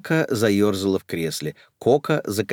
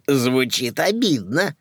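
giggling; 5 semitones higher, slower than usual. Acted. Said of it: "хихикнула Люка".

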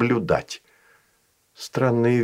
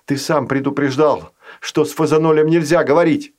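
urgent pleading; 4 semitones higher than usual. Acted.

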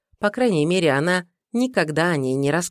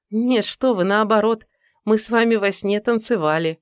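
put-on young woman voice; 5 semitones higher than usual. Secretary voiced by narrator.

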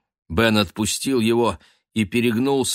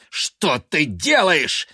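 higher, louder exasperated shouting; furious brotherly rebuke; scolding; 6 semitones higher, 3 dB louder than usual. A narrator's reading. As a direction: shake sense into him. Ben scolding his brother.

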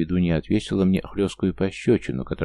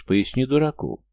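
higher, louder and slow; raised voice; 8 semitones higher, 3 dB louder than usual. A narrator's reading. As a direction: push it out, voice raised. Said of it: "повысил я голос".

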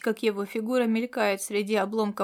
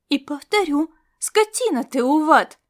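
angry retort; 4 semitones higher, 7 dB louder than usual. A narrator's reading. Brunette snaps back in quarrel.

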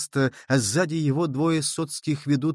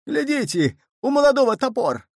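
much higher, loud alarm; alarmed shout; 11 semitones higher, 4 dB louder than usual. A narrator's reading. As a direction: warn the crowd of the axe. Mob spots the axe. (тревожный крик, высоко)

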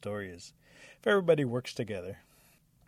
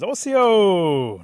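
loud, high drawn-out holler; insistent shout; 10 semitones higher, 17 dB louder than usual. A narrator's reading. Rabbit to the creature that gives nothing back, insistent shout. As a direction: holler it long, demanding an answer. Rabbit calls out, getting no answer.

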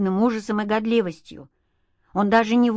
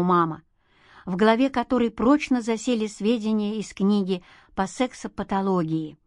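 usual speaking voice

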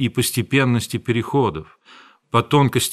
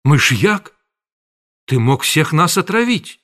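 horrified; 4 semitones higher than usual. A narrator's reading. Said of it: "воскликнула".

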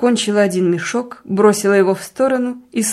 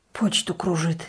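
Почту кружит rasped out hoarse and softer; hoarse, spiteful; 3 semitones lower, 7 dB quieter than usual. A narrator's reading. Husband croaks "Почту кружит" at his wife, hoarse and spiteful. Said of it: "прохрипел он, злобно косясь".

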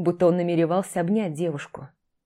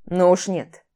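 smirking; 5 dB louder, slower than usual. Acted. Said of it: "хмыкнул Данилов".

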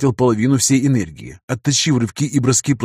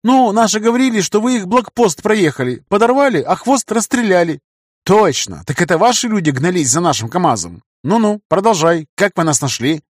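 put-on high, anxious boyish voice; frightened young captive; 9 semitones higher, 4 dB louder than usual. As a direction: talk fast, scared of being killed. Captive voice held.

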